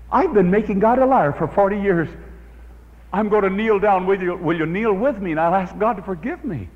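mildly voiced woman brightening with resolve; woman deciding to kneel and pray, eagerly; eager realization.

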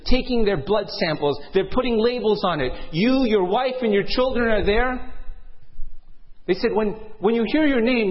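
pressing, lively narrator voice; urgent dramatic storytelling. Acted. Storyteller describes the crowded hospital to listeners, urgent. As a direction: push the scene along.

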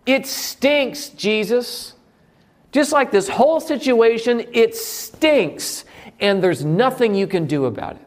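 high, put-upon complaint about the stink; complaining Martha. Retold or imitated. Martha telling Jesus the tomb stinks, high and complaining. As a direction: whine it like a fed-up sister. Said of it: "you know what she says".

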